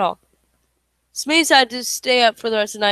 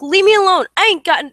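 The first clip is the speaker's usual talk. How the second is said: much higher, louder frightened yell; loud scared yell; yelling back; 6 semitones higher, 6 dB louder than usual. Acted. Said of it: "Smee yelled back".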